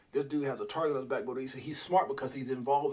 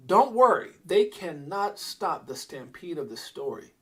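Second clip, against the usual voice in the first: excited reading; 4 dB louder, slower than usual. Retold or imitated. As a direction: read it again like you can't believe it.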